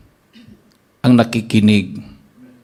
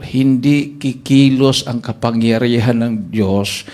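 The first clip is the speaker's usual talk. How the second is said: slow solemn answer; slower than usual. Retold or imitated. Pastor's solemn explanation.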